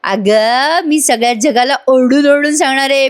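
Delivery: lightly acted jubilant cry; mild mock shouting. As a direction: announce it as if to the world. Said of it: "असं म्हणून मोठ्या मोठ्याने ओरडायला लागतो".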